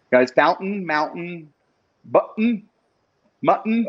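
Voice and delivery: fountain, mountain, button, mutton with glottal T's; swallowed T's. Shown as a demonstration. Host demos Western T-dropping to her viewers. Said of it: "Swallowed the T's".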